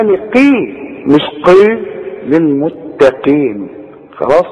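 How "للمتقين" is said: للمتقين slowly, thin t then qaf with long ee; light ت, clear قي. Shown as a demonstration. Teacher models the correction slowly, light t in للمتقين. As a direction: draw out للمتقين with an unthickened t. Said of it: "رقق التاء والقاف دي".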